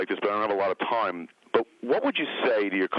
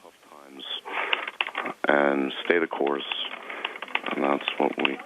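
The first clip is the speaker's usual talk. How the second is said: lower, slow, solemn repeat; solemn echo; 6 semitones lower, slower than usual. Pretend. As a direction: echo it back gravely, lower. Interviewer solemnly echoes answer.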